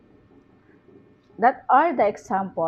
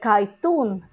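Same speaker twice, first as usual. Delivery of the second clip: "cartoon" stressed on "-toon"; car-TOON, weight on the end of "cartoon"; stress on last syllable. Shown as a demonstration. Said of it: "the stress is in the syllab".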